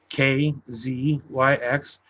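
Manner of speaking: K Z Y X, letter by letter, slowly; slow spelled out. Shown as a demonstration.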